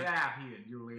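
loud redneck holler; redneck Romeo. Retold or imitated. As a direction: call out like a crude redneck. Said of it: "a redneck".

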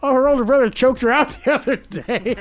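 high, loud breezy mom voice with a laugh inside. Retold or imitated. Mom telling the doctor about the choking, laughing. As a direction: toss it off laughing like nothing happened.

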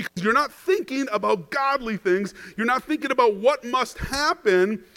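a hint of a firm teacher correcting a friend; mild earnest rebuke; Jesus rebuking Peter. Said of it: "So, "Satan, get behind me".

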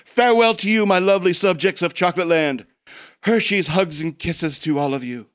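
a lightly voiced pompous queen; evil queen. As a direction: proclaim like a grand but silly queen. Holds a chocolate-land queen character.

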